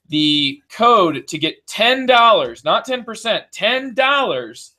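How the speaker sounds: slow, punchy TV sales pitch; infomercial voice. Pretend. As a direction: sell it like a late-night ad host. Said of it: "You got the infomercial voice on".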